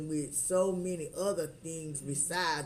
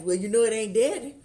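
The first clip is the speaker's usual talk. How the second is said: high, louder laughing talk; 8 semitones higher, 8 dB louder than usual. Real, not acted. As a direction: laugh through the words.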